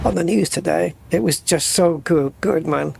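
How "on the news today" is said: imitated old-time British newsreader; old British news accent. Recalling old news reporters, old British news accent. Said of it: "the old British news accents".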